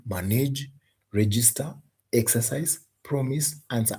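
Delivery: "manage, register, exercise, promise, answer" listed evenly, each stressed on its first syllable. Shown as a demonstration. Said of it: "stress falling on the first syllable".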